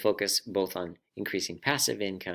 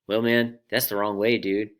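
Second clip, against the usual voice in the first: lightly voiced surfer dude, louder; a hint of surfer dude, pushed louder; 6 dB louder than usual. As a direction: break the news like a surfer. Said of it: "I'll try my best surfer voice".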